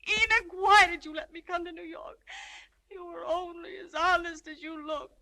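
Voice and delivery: tearful reproach. Acted.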